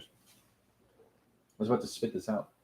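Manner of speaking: breathy whisper, embarrassed; whispered aside. Real, not acted. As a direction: whisper it like a confession. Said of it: "something really nasty".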